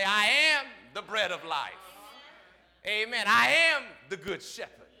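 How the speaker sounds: I AM hammered, loud and slow; building preacher cry; preaching at full force. Acted. Preaching crescendo.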